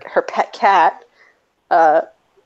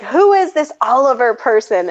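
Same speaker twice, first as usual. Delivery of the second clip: mock outraged parent; 5 semitones higher than usual. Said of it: "she starts".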